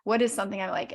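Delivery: hushed unvoiced whisper to herself in the mirror; whispered self-talk. Speaker recalling mirror work, whispering to herself. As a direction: breathe the words as private thoughts.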